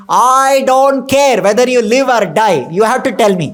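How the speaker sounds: retold angry queen, I don't care. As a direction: insist like a furious wife. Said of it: "She's so angry".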